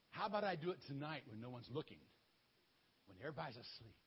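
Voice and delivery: plotting in a near-whisper; hushed scheming. Acted. Gideon plots to act secretly.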